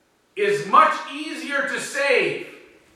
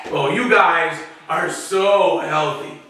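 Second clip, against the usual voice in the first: slow, drawn-out mock praise; dripping sarcasm; 3 semitones lower, slower than usual. Jesus answering the self-righteous Pharisees, sarcastic. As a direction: lay the false compliment on slowly. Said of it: "statement here is dripping in sarcasm".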